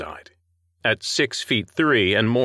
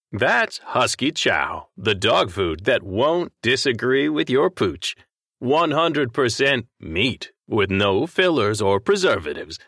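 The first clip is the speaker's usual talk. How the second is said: dog food TV ad; 3 semitones higher than usual. A narrator's reading. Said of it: "The jingle for the dog food".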